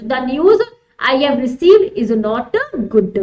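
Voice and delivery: very slow, word-by-word reading; drawn-out teacher's reading. Acted. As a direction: read it slowly and deliberately for the class. Rereads exam sentence slowly.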